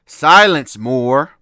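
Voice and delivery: loud, sharp order from a knight; mock knight's shout of silence; commanding shout. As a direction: bark it like a knight drawing a sword. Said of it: "he tells him".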